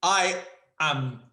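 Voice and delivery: loud, high, slow mock-appalled cry; hammed-up shocked exclamation; mock outrage. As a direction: ham up being scandalised. Mock outrage at friend's remark.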